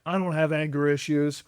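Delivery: a hint of a defensive man; lightly voiced gruff denial; mock denial. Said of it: "denial of, like".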